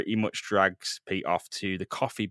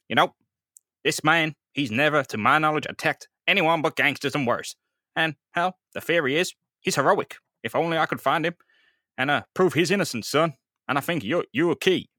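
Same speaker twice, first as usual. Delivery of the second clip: Captain Stacy; 4 semitones higher, 3 dB louder than usual. Acted. Captain Stacy's earnest appeal.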